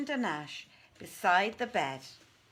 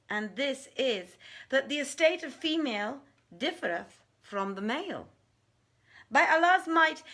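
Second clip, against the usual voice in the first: much higher and louder, an eager jinni's voice; eager Ifrit; 8 semitones higher, 5 dB louder than usual. Acted. Danash answers Maymunah's wager, high and eager. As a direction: accept the bet with lifted excitement.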